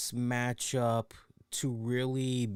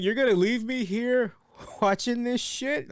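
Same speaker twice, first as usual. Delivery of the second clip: imitating wife; 10 semitones higher than usual. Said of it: "She's like".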